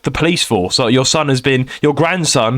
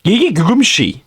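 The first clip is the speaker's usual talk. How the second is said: robot lady voice; 3 semitones higher than usual. Retold or imitated. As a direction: sound like a recorded scam call. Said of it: "some weird Chinese automated lady".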